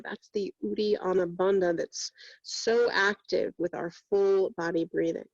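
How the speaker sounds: even-pitched meditation voice with long pauses; guided meditation. Real, not acted. Yoga teacher guiding students through breath and body scan, meditative. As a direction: guide them inward steadily, leaving long silences between phrases.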